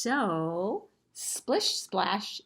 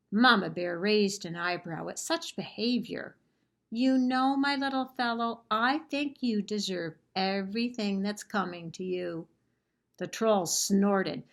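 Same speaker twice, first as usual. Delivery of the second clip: story narration. A narrator's reading. Librarian reading a picture book to children, lively storytelling. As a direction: tell the story to the class with gusto.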